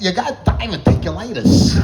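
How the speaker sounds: high, slow, oddly stressed delivery; Christopher Walken. Acted. Doctor giving a diagnosis, as Christopher Walken. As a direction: break the diagnosis in stretched, lurching phrases. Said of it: "he sounds like Christopher Walken".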